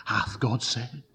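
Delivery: soft, insinuating devil's question; tempter's whisper. Acted. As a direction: plant the doubt in a hushed voice. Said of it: "He comes and he whispers".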